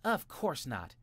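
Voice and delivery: put-on high, loud child voice; tiny boy voice. A narrator's reading. Jimmy replies to his brother. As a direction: insist like a small boy. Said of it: "replied Jimmy".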